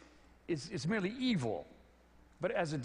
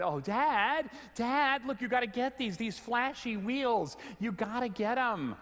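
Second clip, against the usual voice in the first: put-on higher and louder, eager kids begging their dad; excited little daughters; 7 semitones higher, 3 dB louder than usual. Daughters pleading with dad over catalog, higher, louder, eager. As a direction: squeal it like his six-year-old girls spotting flashy wheels. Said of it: "and they said".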